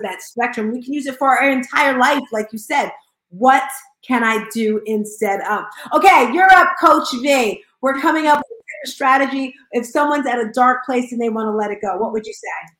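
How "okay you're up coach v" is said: excited call-up. Real, not acted. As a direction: call the next coach up like a game host. Host calls up next coach.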